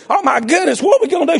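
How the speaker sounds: mock dismay, pitch jumping up; acted flustered surprise. Pharaoh's daughter finding baby Moses, acted flustered surprise. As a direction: exclaim like someone startled by a find.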